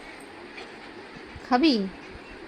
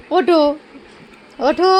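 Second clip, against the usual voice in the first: scolding command; 4 semitones higher, 5 dB louder, much slower than usual. Real, not acted. Ordering the dog off.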